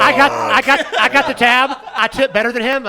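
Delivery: loud, high mock clamoring for the tab; boastful customer. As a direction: shout over the others to claim it. Acting out customers fighting for tab.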